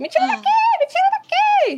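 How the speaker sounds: put-on very high, swooping, shrieking scream. Retelling a game scene, Rapunzel calling from above: imitating Rapunzel shouting. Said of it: "escutar a Rapunzel gritando".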